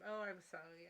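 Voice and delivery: understated, unintentionally sarcastic apology; sounds sarcastic. Real, not acted. Apologising to a viewer for a mix-up, accidentally sarcastic. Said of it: "sounded very sarcastic".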